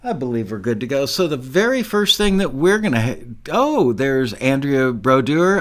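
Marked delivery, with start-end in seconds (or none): 4.3-5.6 attempting a French "Brodeur", drawn out; careful French name. Real, not acted. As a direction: sound out "Brodeur" slowly as a French surname. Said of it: "trying to pronounce your name".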